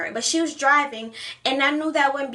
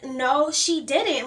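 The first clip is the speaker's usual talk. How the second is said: furious disbelief; much slower than usual. Retold or imitated. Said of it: "like, furious".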